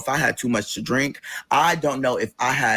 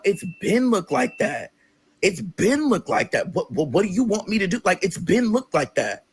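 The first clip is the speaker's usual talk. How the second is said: higher, slow, dismissive sister voice; imitating the sister; 7 semitones higher than usual. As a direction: drag it out like she's been saying it for years. Sister shrugging off the house.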